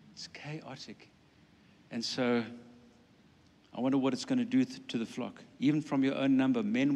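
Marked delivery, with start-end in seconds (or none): 0.1-1.1 breathy whispered repeat, voice dropped right out; hushed, dismayed whisper. Real, not acted. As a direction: breathe it as a stunned aside.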